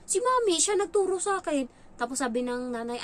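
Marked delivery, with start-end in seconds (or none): 0.1-1.7 put-on child's voice. Child blames mom.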